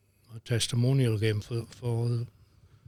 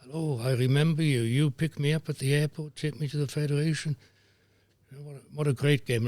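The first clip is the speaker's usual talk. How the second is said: lightly imitated Swedish lilt, a little higher; a hint of sing-song Swedish in the voice; sing-song Swedish accent; 4 semitones higher than usual. Swedish football president greeting the referee at his door, lightly sing-song Swedish accent. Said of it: "in his sing-song Swedish accent".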